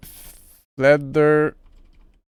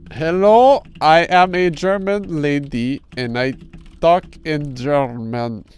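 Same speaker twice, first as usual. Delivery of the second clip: mock German accent; slower than usual. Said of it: "More, give me more".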